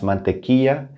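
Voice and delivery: "mantequilla" with the ll said as a y; double L as Y. Shown as a demonstration. Teacher modelling for learners, "mantequilla" with a y sound for ll. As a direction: say "mantequilla" as man-te-kee-ya. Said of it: "The double L has a Y sound".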